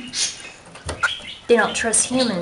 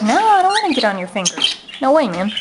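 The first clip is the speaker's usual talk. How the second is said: voicing the bird; 2 semitones higher, 3 dB louder, faster than usual. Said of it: "She's like".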